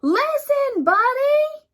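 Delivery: loud, high parental yell. A narrator's reading. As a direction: shout his name across the yard. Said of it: "His parents tried yelling".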